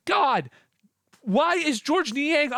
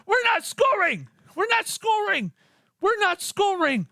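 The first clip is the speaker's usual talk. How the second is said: frustrated shout; 5 semitones higher than usual. Real, not acted. Frustrated rant at coach.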